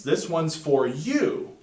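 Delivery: "you" drawn out as the point of emphasis; stress on you. Shown as a demonstration. Teacher showing the emphasis of that sentence, stress landing on "you". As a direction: say it slowly, leaning into the final "you". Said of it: "The emphasis when you say that sentence".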